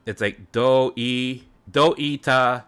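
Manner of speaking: breaking the word into separate syllables. Shown as a demonstration. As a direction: spell it out sound by sound. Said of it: "it's basically like going do".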